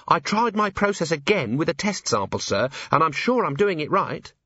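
high-pitched, eager report to a superior; earnest junior officer. Acted.

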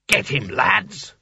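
high, slow, drawn-out call to the gang; urgent rallying call. A narrator's reading. Wizard telling the lads to grab Sconner, urgent call. Wizard rallies others to pounce.

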